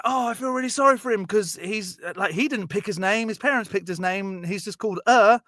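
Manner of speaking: a hint of a smitten schoolgirl; sweet girl's voice. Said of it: "she's like".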